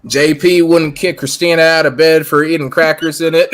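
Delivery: trying to keep a straight face; line pushed out through suppressed laughter; struggling not to laugh. Acted. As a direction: joke held back with a grin. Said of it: "I can't say it with a straight".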